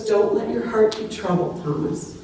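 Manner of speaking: comforting. Retold or imitated. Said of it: "Jesus' answer is meant to comfort him".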